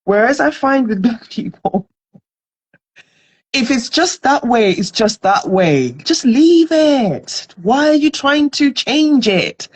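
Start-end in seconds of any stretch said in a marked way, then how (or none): 3.7-9.7 mock dismissive. Voicing complacent people, mock dismissal.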